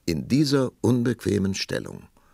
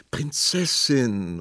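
entmutigter Ruf; 6 semitones higher, 4 dB louder, much slower than usual. A narrator's reading. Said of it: "rief der Prinz entmutigt".

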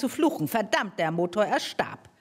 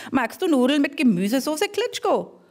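eager invitation; 5 semitones higher, 4 dB louder than usual. Acted. Mortimer invites mole warmly.

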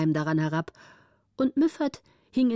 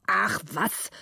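grumbling count. Acted. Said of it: "sagte der Graf und brummte".

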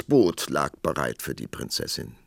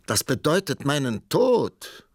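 hoher, klagender Ausruf; entmutigter Ausruf; 8 semitones higher, 4 dB louder than usual. A narrator's reading. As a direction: verzagt und mit erhobener Stimme klagen. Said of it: "rief der Prinz entmutigt". (entmutigt gerufen)

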